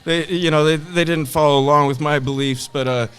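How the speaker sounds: hammed-up brainwashed follower; mock cult member. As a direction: gush about the leader naively. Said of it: "the guy's like".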